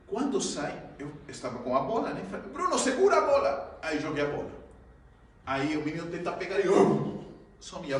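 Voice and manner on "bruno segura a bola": high, loud shout to catch the ball; shouting to a friend. Retold or imitated. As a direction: yell it across the river.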